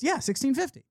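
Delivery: imitated deadpan demand for money; name the price with mock seriousness. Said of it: "with a seriousness and a deadpan".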